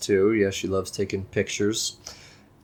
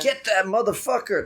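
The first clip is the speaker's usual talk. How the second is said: high-pitched mock movie quote; playful imitation of the deputy; quoted deputy sheriff's line; 12 semitones higher than usual. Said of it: "like, his funniest line".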